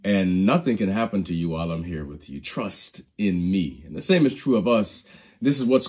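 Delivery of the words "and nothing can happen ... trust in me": gentle reassurance. Retold or imitated. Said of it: "He was simply saying to them".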